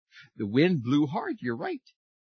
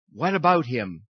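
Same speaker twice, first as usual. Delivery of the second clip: louder, gruff challenge; whirling wind; 7 dB louder than usual. A narrator's reading. Wind challenging the sun about the man, louder. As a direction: demand it like a gust. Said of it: "whirled the wind".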